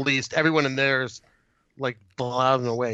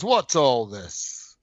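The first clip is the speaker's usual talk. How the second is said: British cop line; 3 semitones lower, much slower than usual. Retold or imitated. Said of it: "a British cop goes".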